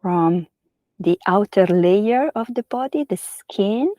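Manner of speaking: unhurried yoga nidra guidance with long pauses; guided meditation. Real, not acted. Yoga teacher settling listeners lying on their backs, guided meditation. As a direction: guide them gently into rest, phrase by phrase.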